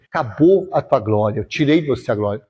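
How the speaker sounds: low, understated verdict; God pronouncing judgement. Acted. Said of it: "e Deus falou assim".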